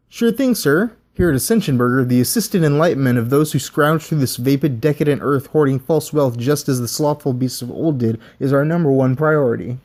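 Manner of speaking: chirpy fast-food pitch; scripted burger mascot. Acted. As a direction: sell the creepy creed with a smile. Burger bot answers the interviewer.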